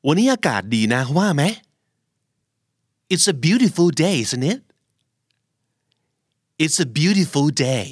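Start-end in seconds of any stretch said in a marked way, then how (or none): 3.1-4.6 rising tag on isn't it; question tag tune. Shown as a demonstration. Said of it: "ก๊อปให้หมดเลยนะ ทั้งการเน้นเสียง". 6.6-7.9 slow model line with beautiful stressed; slow practice phrase. Shown as a demonstration. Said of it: "แค่ฟัง แล้วพูดตามครับ".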